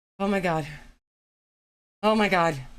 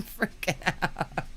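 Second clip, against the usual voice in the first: whispered; 5 dB quieter, much slower than usual. Real, not acted. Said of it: "I'm freaking out".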